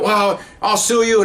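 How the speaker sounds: high, slow defiant threat; mock haughty threat. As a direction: drag it out to threaten. Mother threatens the officers.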